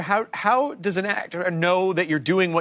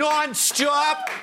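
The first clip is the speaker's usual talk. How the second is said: Boston nonstop; 7 semitones higher than usual. Retold or imitated. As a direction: bark Nonstop in a Boston accent with a slight lisp. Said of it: "a little bit of a lisp to it".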